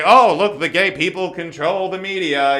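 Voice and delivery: a hint of a sneering bigot; lightly mock a smug conspiracy nut. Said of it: "people aren't so quick to say".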